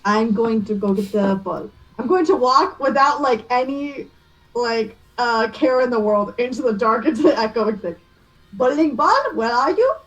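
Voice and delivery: put-on French accent. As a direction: call out for the ball in a French lilt. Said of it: "Bella's accent work is chef's kiss".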